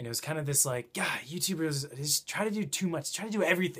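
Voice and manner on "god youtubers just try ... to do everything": fed-up, exasperated, pitched up. Retelling a remark from someone the speaker talked to: imitating an exasperated tone. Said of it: "it was a real, like, exasperated tone".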